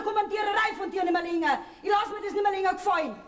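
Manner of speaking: rufend, zuletzt schneller; wütend rufend. Acted. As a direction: dem Mann die Meinung hinausrufen. Frau streitet mit Ehemann. (Frau schreit den Ehemann an)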